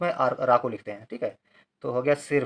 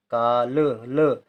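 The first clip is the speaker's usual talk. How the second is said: slow dictation; 2 semitones lower, much slower than usual. Shown as a demonstration. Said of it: "ला के साथ कोई उच्चारण नहीं".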